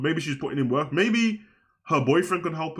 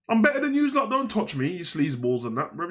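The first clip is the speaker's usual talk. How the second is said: high, snooty mock heel; arrogant heel voice; 5 semitones higher than usual. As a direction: sneer it down at the crowd. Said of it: "that's what Tiffany should be doing".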